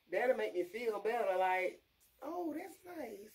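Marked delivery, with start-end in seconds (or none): 2.2-3.3 high, soft, drawn-out niceness; slow and softly pleased, pitched up; put-on sweet little voice; mock sweet. Imagined nicer way of asking.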